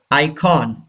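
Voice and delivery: icon as "EYE-kawn"; icon, second syllable clearly "kawn"; full O vowel. Shown as a demonstration. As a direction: say icon with a full open "kon" at the end. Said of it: "don't say icon".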